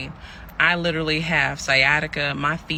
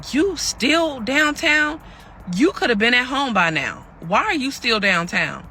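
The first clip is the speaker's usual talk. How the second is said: high, drawn-out imitation of scorn; mocking incredulity; 8 semitones higher, 3 dB louder, slower than usual. Partner on phone to abandoned woman, mock-incredulous imitation. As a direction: imitate him, stretching the questions in disbelief.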